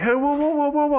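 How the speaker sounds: retold high call of whoa whoa. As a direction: shout her back from traffic, high. Stopping lady walking into traffic.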